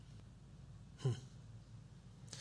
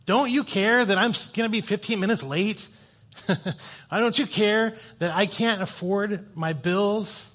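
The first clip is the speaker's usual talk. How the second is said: higher, drawn-out complaint; mock infuriated; 4 semitones higher than usual. Upset believers complain to God about lateness and bills, mock infuriated. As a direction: act out an upset demand to God. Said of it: "like, infuriated".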